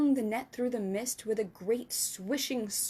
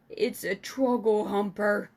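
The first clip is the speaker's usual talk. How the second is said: louder furious shout; angry shout; 5 dB louder than usual. Acted. Giant shouting in rage over the nightmare. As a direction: shout in fury. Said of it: "he shouted".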